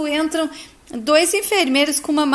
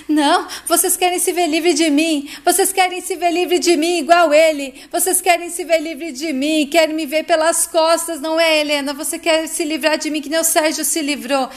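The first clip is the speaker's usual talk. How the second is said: higher-pitched, mildly heated protest; agitated accusing; 4 semitones higher, 4 dB louder than usual. Acted. Heloísa accuses her sister of wanting rid of her, agitated. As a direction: lash out in a narrated quarrel.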